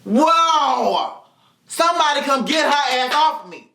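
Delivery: put-on high, excited kid watching a fight; excited onlooker. Classmate on a chair cheering the fight, high and excited. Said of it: "she stood up on the little chair and was like".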